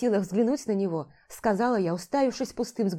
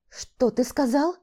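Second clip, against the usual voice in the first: mock growl; 5 semitones higher, slower than usual. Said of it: "прорычала я".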